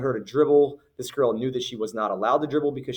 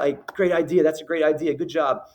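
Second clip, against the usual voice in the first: higher, upbeat cheering-on; encouraging praise; 4 semitones higher, 4 dB louder than usual. Acted. Fan praising a child's effort, lightly acted encouragement. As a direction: call out approval to a kid who tried. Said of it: "be encouraging to the kids".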